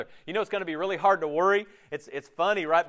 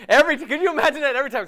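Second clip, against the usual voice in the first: quick, high, laughing disbelief; 9 semitones higher, 7 dB louder, much faster than usual. Real, not acted. Preacher to congregation, laughing in disbelief. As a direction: laugh right through the question.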